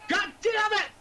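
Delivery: sudden high-pitched curse; angry outburst. Acted. Wizard cursing his failed plan, angry outburst. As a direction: burst out in frustration.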